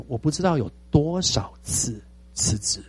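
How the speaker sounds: soft, slow whisper; whispered aside. Real, not acted. Pastor confessing how often he resigned, whispered. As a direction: let it slip out under your breath. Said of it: "confession of resignations".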